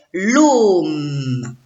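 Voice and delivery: l'ôme drawn out, long O into a held M; syllabe en entier. Shown as a demonstration. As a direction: stretch l'ôme as one blended syllable. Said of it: "Répète". (l'ôme étiré, sons liés)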